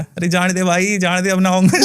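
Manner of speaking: lightly voiced spirit pleading to be let go; a hint of a whining ghost, half-laughing; mock begging spirit. Healer retells the spirit begging to leave, lightly pleading. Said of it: "तो वो चिल्लाने लगा".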